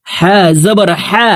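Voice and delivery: হা from the middle of the throat; throat-made হা. Shown as a demonstration. Teacher shows learners the letter হা, pronounced from the middle of the throat. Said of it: "হলকের মধ্যখান থেকে উচ্চারণ করে".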